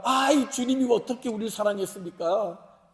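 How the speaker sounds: mildly indignant, imitated objection; protesting. Israelites answering God's declaration of love, protesting. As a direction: talk back in mock disbelief. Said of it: "이렇게 첫 번째 항변이 나오는 거예요".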